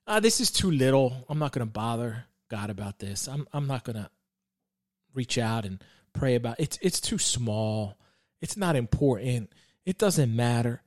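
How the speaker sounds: low, softened mock excuse; dismissive self-talk. Man voicing his excuse for not bothering God, dismissive.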